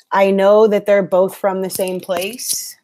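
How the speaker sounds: talking while crunching chips. Real, not acted. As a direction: mouth full of chips. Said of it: "I'm crunching".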